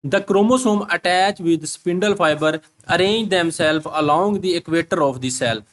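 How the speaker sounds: reads the English line very slowly, word by word; slow dictation reading; slow textbook reading. Shown as a demonstration.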